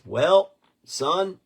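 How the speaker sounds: put-on high, loud folksy old man; old-timer voice. Storyteller imitates old gas station man. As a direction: drawl it like a wise old-timer. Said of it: "He goes".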